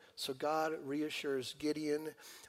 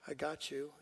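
reassuring God; 6 dB quieter than usual. Retold or imitated. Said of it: "the voice of God saying".

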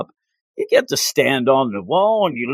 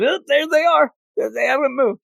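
mock lazy guard; 10 semitones higher than usual.

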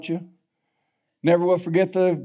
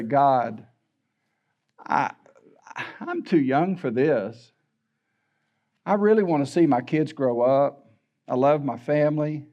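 tearful prayer; 3 semitones lower than usual. Retold or imitated. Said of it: "I can remember crying".

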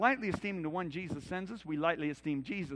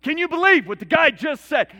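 shouted, higher and much louder, hammed-up gossip; mock outraged shout; 8 semitones higher, 12 dB louder than usual. Preacher mocks teachers gossiping about Jesus, hammed-up shout. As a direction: blurt it out like a scandalised busybody. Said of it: "looking at each other going".

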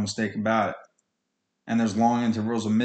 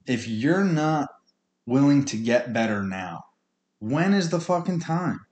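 exasperated; 4 semitones higher than usual. Real, not acted. Rising exasperated challenge.

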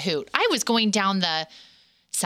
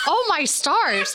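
mortified laughter; 6 semitones higher, slower than usual. Real, not acted. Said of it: "I think I'm mortified".

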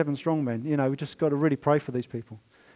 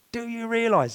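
higher, marvelling question; quoting Paul in awe; 6 semitones higher than usual. Retold or imitated. Preacher quoting Paul's awed question to the church. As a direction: voice Paul's wonder at Jesus. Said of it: "he says".

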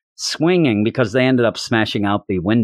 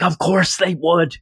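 mildly indignant, higher-pitched retort; mock mad; 6 semitones higher than usual. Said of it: "And he's so mad".

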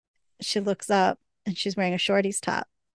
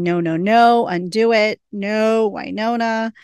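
restrained retold yelling, louder at first; mock yell; 3 dB louder than usual. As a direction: imitate yelling without full force. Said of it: "Waverly's just yelling".

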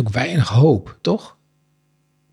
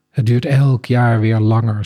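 sighing. Acted. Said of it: "zuchtte ze".

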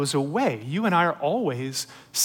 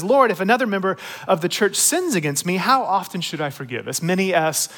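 proud build-up; 3 semitones higher than usual. Retold or imitated. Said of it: "You can almost hear it in his voice when he says".

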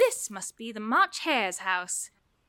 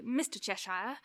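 respectful; 5 semitones lower, 7 dB quieter than usual. Acted.

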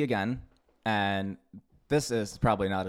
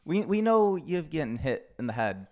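voicing hesitant, skeptical fans; doubtful fans; 4 semitones higher than usual. Fans questioning Goku's judgment, gently doubtful. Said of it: "even the fans were like".

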